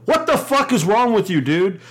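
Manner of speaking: hammed-up angry lecture at gropers; mock rant. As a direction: scold them like a fed-up bouncer. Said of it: "Fuck it, here we go".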